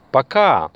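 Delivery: Пока said briskly, KA on top; stress on KA. Shown as a demonstration. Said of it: "It's on the second syllable".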